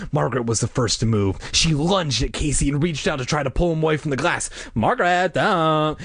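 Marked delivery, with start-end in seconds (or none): 4.7-6.0 high-pitched mock scream, not full volume; acted scream. A narrator's reading. Diane stopping her friend, screaming. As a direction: cry out in alarm, pitched up. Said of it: "Diane screamed".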